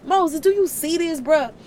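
loud, high, streetwise rant; God fuming, ready to air it out; indignant God. Retold or imitated. God ranting to Moses about the Israelites, loud and indignant. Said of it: "literally his conversations with Moses".

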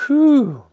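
very high, loud whew of relief; long high whoop of relief; relieved whew. A narrator's reading. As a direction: let out a big exaggerated "whew". Relief after frantic digging.

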